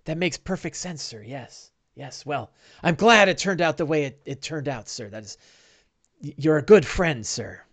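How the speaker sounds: a hint of a humble servant saying sir to his master; servile sidekick. GM voices servile sidekick Bing.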